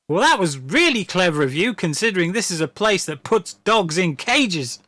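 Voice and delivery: mock-impressed with swooping pitch; sarcastic praise. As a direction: lay on the fake admiration. Sarcastic praise in retold scene.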